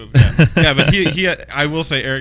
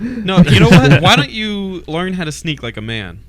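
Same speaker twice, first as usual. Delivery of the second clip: macho drill-sergeant voice; 5 semitones higher, 8 dB louder, slower than usual. Pretend. Mock tough-guy taunt.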